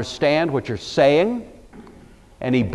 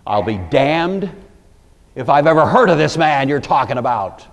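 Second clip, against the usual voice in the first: mildly heated oath; cursing denial; 3 semitones higher, 4 dB louder than usual. Acted. Peter swears to his accusers, mildly heated cursing. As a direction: swear it emphatically, building a little louder. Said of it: "Then he began to curse".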